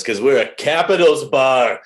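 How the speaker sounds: loud, emphatic punchline; emphatic bartender. Acted. Bartender bans penguins from a Capitals bar, loud and emphatic. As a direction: declare the ban loudly.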